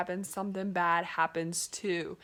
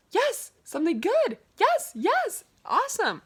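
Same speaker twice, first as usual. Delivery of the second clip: high and loud victory cheer, much higher and louder; 13 semitones higher, 7 dB louder than usual. Retold or imitated. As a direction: burst out in triumph. Celebrating a court win.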